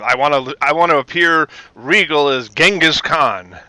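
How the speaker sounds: lightly voiced grand actor; a touch of regal, theatrical flourish; John Colicos. Actor asking to look like a conqueror, lightly grand. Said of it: "in his best pre-Count Baltar voice".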